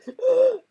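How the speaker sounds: high sharp gasp; aunt choking in shock. A narrator's reading. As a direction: clutch and choke. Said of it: "made a choking noise".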